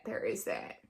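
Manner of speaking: low, quiet echo. Real, not acted.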